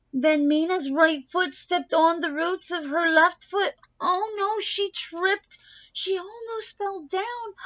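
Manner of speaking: rising alarm. A narrator's reading. Stage mishap climax.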